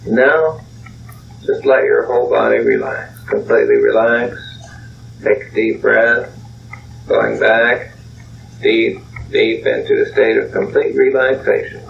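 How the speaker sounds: measured hypnotist's delivery with pauses; guided relaxation. Acted. Leads relaxation after the story.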